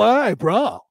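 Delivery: lightly voiced surfer bro; hint of surfer-dude slang voice. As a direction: greet like a California surfer. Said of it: "the surfer dude".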